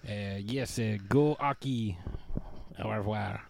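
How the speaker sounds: put-on goofy French-Canadian accent, Borat-like; hammy French accent, halting English; Patrice Bergeron French accent. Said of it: "why does Patrice Bergeron sound like Borat?".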